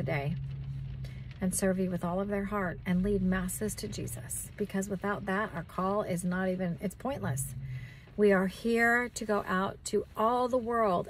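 earnest extemporaneous prayer; sincere intercession, addressed to God; spontaneous prayer. Real, not acted. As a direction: pray over your listeners in a steady, heartfelt flow. Leads a prayer for listeners.

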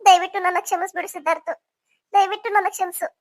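a touch of tears in a plea; tearful pleading. Acted. Aunt begs nephew to forgive her, tearfully. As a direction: beg forgiveness, mildly tearful. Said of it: "ನೀವ್ ಯಾಕೆ ಅಳ್ತಾ ಇದ್ದೀರಾ".

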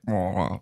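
drawn-out mock trumpet "wah"; imitated trumpet. Retelling a comedy sketch about a trumpet, imitated horn noise. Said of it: "trying to play the trumpet".

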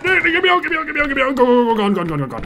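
high, loud frantic pleading; panicked. Real, not acted. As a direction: scream it while running for your life. Fleeing the monster in panic.

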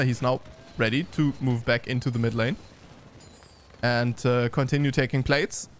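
lightly animated esports commentary; game caster keeping up with the action; live play-by-play. Real, not acted. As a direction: call the team fight as it unfolds.

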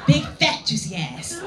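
giggling through clumsy dirty talk; laughing dirty talk. Acted. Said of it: "dirty talk time".

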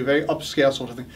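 mock upscale British accent; quick, understated upscale British voice. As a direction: put on a refined British accent. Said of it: "I've also had a British thing".

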